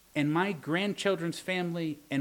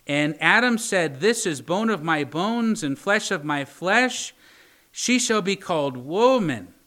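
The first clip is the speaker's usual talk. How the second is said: scripture reading; 3 dB louder than usual. Acted. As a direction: read it out like holy writ. Preacher reads Genesis aloud.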